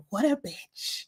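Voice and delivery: hushed retold jibe; imitated whisper. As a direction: mimic a sneaky aside, softly. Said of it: "David whispers".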